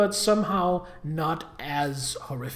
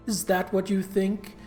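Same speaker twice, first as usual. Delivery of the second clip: cartoon villain. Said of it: "You talk like a cartoon villain".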